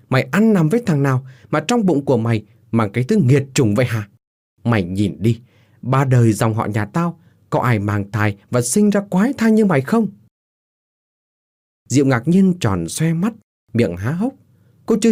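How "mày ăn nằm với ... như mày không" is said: acted scornful tirade, pitch lifting; angry accusation. Husband accusing his pregnant wife of adultery, angrily. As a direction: berate her with mounting outrage.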